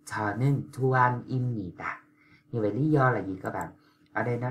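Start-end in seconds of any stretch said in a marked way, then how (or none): 0.1-2.0 투안입니다 said as tuanimnida, with m before n; model Korean. Shown as a demonstration. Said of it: "Rõ ràng bạn nghe nó là".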